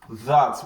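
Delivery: "that" with an ordinary English th; English equivalent. Shown as a demonstration. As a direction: say "that" as the lighter English word. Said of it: "maybe like something like that".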